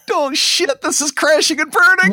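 high, laughing oh shit; cracking up at his own flop; laughing embarrassment. Real, not acted. The speaker watches his game show flop, high and laughing.

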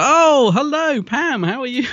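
very high, bright polite hello; chirpy greeting. Retold or imitated. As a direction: greet a celebrity sweetly. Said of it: "I was like".

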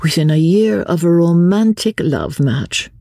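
high, animated society voice; lively lady, rueful. Acted. Talk of a romantic love match, high and animated. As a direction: exclaim lightly in a high register.

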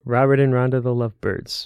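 lightly grand Shakespearean reading; classical stage acting. Shown as a demonstration. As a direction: read it like a Shakespeare actor. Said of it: "you gotta get some Shakespearean awesomeness in there".

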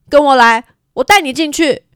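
put-on high, eager girl's invitation; lightly voiced girl beckoning; young girl voice. Mary leading him in.

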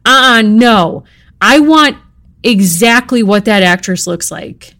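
mock demanding author. Author rejecting the illustrator's draft, bossy and loud. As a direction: refuse like a picky diva. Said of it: "she was like".

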